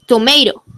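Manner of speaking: "tomato" with the second T soft, almost a D. Shown as a demonstration. Teacher models "tomato" for the class, soft flapped T. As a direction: flap the middle T in "tomato". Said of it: "Suena casi como una D".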